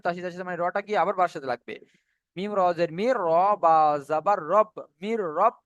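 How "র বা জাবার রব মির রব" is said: slow letter-by-letter reading that lands on "রব"; spelled-out joining. Shown as a demonstration. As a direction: sound out "র", "বা", then join them as "রব". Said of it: "একে একে উচ্চারণ হবে".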